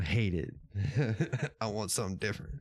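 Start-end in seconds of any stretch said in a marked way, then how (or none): 1.6-2.6 quick, quieter, with a laugh; laughing reread. Retold or imitated. Streamer rereading the viewer's answer, laughing quickly. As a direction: toss it off amused and fast.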